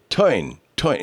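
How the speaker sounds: TOIN, oy in place of the er of turn; bent R. Shown as a demonstration. Host demonstrating Oliver Hardy's quirk, Brooklyn-style "toin". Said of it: "R's to sound like it was from Brooklyn".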